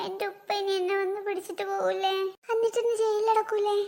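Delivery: put-on small, anxious child's plea; worried. Boy fearing jail asks aunt, worried. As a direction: ask in a small, frightened voice.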